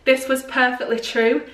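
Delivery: put-on Mancunian accent; Manchester accent. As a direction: read it like a Manchester local. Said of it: "Not like Manchester".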